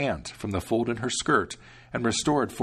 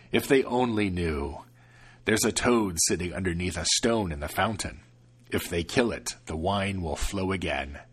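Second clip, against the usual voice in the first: lower, knowing devil; smug devil; 3 semitones lower than usual. Acted. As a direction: boast the secret. Devil explains smugly.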